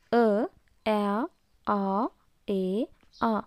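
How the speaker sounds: "ಅ, ಆ, ಆ, ಎ, ಆ", each vowel isolated with a pause; letter-sound demo. Shown as a demonstration. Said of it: "ಎಷ್ಟು ಬಗೆಯಾಗಿ pronounce ಮಾಡ್ತೇವೆ".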